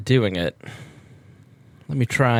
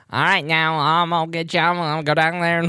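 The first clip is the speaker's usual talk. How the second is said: higher-pitched, hammed-up Southern accent; Southern doctor impression; 5 semitones higher than usual. Doctor talking to a patient in a comedy bit, mock Southern accent. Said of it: "that's a Jeff Foxworthy bit".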